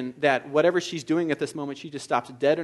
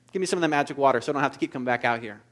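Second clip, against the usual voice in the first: sarcastic; 2 semitones lower, much faster than usual. Retold or imitated. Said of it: "a little bit of sarcasm".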